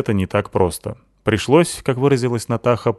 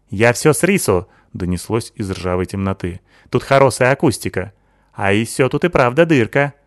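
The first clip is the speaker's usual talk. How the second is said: put-on Sykil's accented voice; 3 semitones higher, 3 dB louder than usual. Sykil praising Natasha, lisping accented girl voice. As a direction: voice the Asian girl, lisping s as t-sounds.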